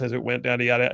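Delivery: lightly imitated reading machine, speeding up; computer reading voice. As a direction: rattle it off like a sped-up machine. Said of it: "commuter voice reading it like this".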